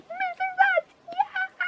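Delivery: very high squealed cheer; re-enacted cheering. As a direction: squeal it out like a wild fan. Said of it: "how much I was cheering".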